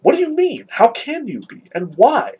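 surprised Alyosha. A narrator's reading. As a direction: read it incredulous, pitch leaping up. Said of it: "exclaimed the surprised Alyosha".

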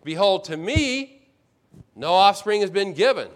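"to me" held long, high and loud; stress on TO ME. Retold or imitated. Abram reminding God who lacks children, stress on "to me". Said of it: "puts emphasis on the words to me".

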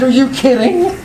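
amazed. Retold or imitated. Architect amazed.

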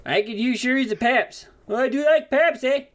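cheerful Canadian insisting on beer; Canadian accent. Acted. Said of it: "Hope my accent's spot on".

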